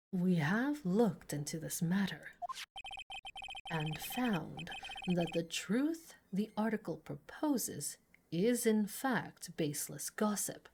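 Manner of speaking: low, soft, measured courtroom statement; restrained, formal lawyer; composed prosecutor. Acted. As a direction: state it coolly and dismissively.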